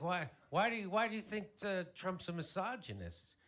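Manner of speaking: high, stammering question; mock bafflement. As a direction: press her with acted disbelief. Acted questioning of upset sister.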